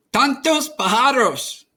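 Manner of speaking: a gentle lift for grandma's words; grandmother's voice. A narrator's reading.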